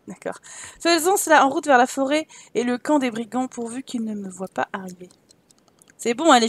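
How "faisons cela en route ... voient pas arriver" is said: animated storybook narrator; story narration. Acted. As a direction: read the game text like a storyteller. Reads game text aloud. (narration de conte)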